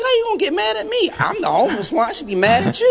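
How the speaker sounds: retold indignant yell; mock indignant outburst. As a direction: throw the outrage back in their face, hammed-up. Indignant retort in retold argument.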